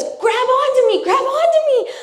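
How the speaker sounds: put-on a kid tugging on a fishing line; frantic plea. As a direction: beg for help while laughing. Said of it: "And she goes".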